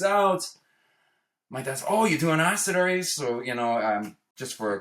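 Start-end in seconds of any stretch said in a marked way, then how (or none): 1.9-3.0 higher, louder mock of a sarcastic father; sarcastic dad. Father mocking the son's confession, sarcastic. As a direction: needle him with it.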